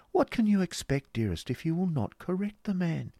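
high-pitched grand lady; chiding wife. Acted. Wife chides her husband.

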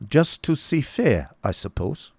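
high, slow query; questioning Baron. Acted.

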